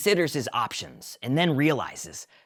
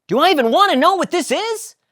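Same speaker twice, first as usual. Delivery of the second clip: high, loud skeptical Jerry; wary Jerry; 10 dB louder than usual. Acted. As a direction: dread the answer.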